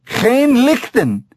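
high, drawn-out call to the ape; loud call. A narrator's reading. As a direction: call the foreign words up into the tree. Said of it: "The heavy-set man said loudly".

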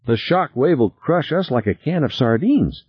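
high, agitated doomsaying; alarmed. A narrator's reading. Passenger warns pilot of the shock wave, high and alarmed. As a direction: predict disaster in a high voice. Harry predicts doom in racing sub.

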